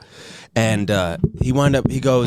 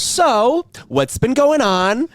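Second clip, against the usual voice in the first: high, slow sing-song nurse voice; cute nurse; 10 semitones higher, much slower than usual. Retold or imitated. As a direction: ask slowly like a sweet, cutesy nurse. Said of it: "it's always a cute, like, nurse".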